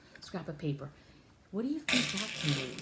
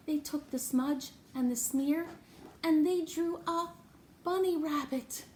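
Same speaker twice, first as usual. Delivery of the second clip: higher and louder, building to the bunny; excited reveal; 8 semitones higher, 3 dB louder than usual. Acted. Showing Nat the bunny rabbit, excited reveal. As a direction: unveil it like a surprise present.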